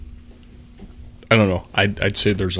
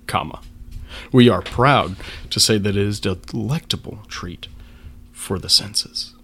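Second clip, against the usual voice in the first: dramatic reading; 3 dB louder than usual. Acted. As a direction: read it like a proud label narrator. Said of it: "that is very well read".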